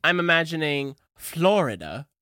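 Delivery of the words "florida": Florida with a lilting tune; sing-song the word Florida. Shown as a demonstration. Imagining another way to say it, sing-song Florida. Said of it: "more of a sing-song".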